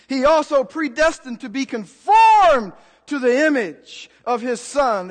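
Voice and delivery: slow, weighty preaching with loud peaks; emphatic preaching. Real, not acted. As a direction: stretch and punch the key words. Preaches scripture with heavy emphasis.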